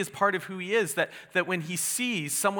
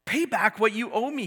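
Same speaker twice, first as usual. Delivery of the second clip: demanding; 7 semitones higher, 4 dB louder than usual. Acted. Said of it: "he demanded".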